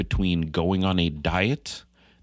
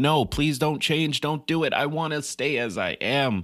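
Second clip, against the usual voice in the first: high, pleading, begging, emotional scream; 8 semitones higher than usual. Speaker voices his emotional side as a character, in a screaming emotional-side voice. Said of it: "The emotional side is sitting there screaming like".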